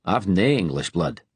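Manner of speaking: put-on a playful, stressed Glasgow accent. A narrator's reading. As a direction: lay on the Glasgow accent to lighten the mood. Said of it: "stressing his Glasgow accent".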